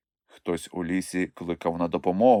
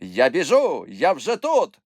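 high, urgent call; hurrying; 8 semitones higher, 3 dB louder, slower than usual. A narrator's reading. Moomintroll rushes to the rescue, hurried. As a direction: call out eagerly as you rush in. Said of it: "квапився Мумітроль".

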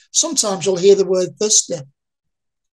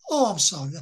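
mock pity, softer and lower, head dropping; pitying sorry; 3 semitones lower, 6 dB quieter than usual. People hearing of her dementia, mock pitying murmur. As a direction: imitate the sympathetic dementia drop. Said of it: "And the head moves".

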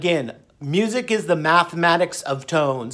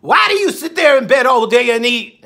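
a higher-pitched scolding doctor; imitating the doctor; 4 semitones higher, 3 dB louder than usual. Imitating the doctor scolding him, higher voice. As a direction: ask it like a pushy doctor. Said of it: "He said".

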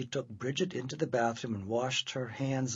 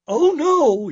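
very high, loud dismayed cry; yell; 13 semitones higher, 14 dB louder than usual. Acted. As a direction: wail in dismay. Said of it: "yelled her mother".

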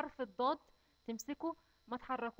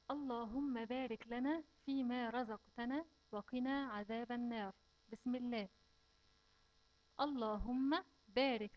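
prayer recitation; slower than usual. Shown as a demonstration. Recites mealtime supplication.

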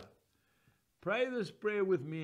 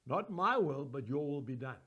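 prayer repeated; 6 semitones lower than usual. Shown as a demonstration. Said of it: "pray that same prayer with me".

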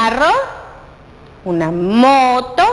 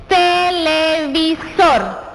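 slow sounding-out; 4 semitones higher, much slower than usual. Shown as a demonstration. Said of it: "Inicia con el sonido de la consonante T".

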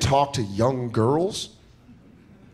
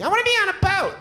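put-on high airy valley girl; faster than usual. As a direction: whine it like a spoiled young girl. Mimicking young girls' wishes.

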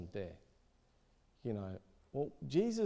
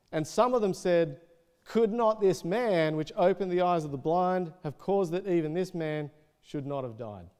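loud, higher-pitched Bible reading; scripture reading; 5 semitones higher, 6 dB louder than usual. Acted. Preacher reads out the critics' question about Jesus, projected scripture reading. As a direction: project the doubters' question from the verse.

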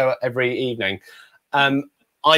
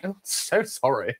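meek apology; 8 dB quieter than usual. Retold or imitated. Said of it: "And I'm like".

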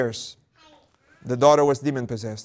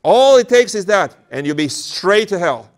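higher, louder sly temptation; tempting demon; 6 semitones higher, 6 dB louder than usual. Acted. Demon tempting the elder to call himself saint. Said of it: "The demon tempts him and said".

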